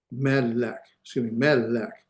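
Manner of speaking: "melek" with the emphasis on "me"; stressed syllable demo. Shown as a demonstration. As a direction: lean on the first syllable of "melek". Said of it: "emphasis here".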